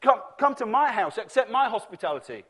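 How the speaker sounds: a lightly voiced rich man pleading with Jesus to dine; wealthy townspeople inviting. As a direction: coax him in like a host who wants the honour. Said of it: "voices of wealthy people".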